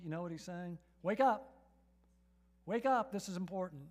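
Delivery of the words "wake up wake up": loud, punchy call to wake up. Acted. Pastor calling sleepy listeners to attention, loud. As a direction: jolt them awake.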